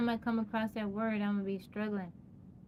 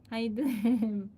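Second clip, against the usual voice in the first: tabby twang; 5 dB louder, slower than usual. Shown as a demonstration. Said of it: "a little tabby twang on it".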